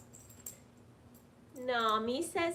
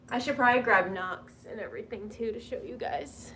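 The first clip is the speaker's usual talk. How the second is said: whisper; 3 semitones lower, 7 dB louder than usual. Real, not acted. Whispered plan to viewers.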